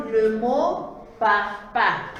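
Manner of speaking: le mot papa drawn out slowly, each syllable clear; slow emphatic word. Shown as a demonstration. Teacher slowly stressing papa for young pupils. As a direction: spell out papa slowly for the children. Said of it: "nous allons reproduire".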